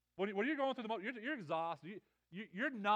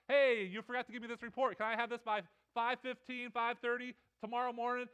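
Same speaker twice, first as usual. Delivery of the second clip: demanding boss; 4 semitones higher, 5 dB louder than usual. Retold or imitated. Boss's email voiced at desk.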